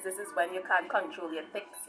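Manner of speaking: ordinary delivery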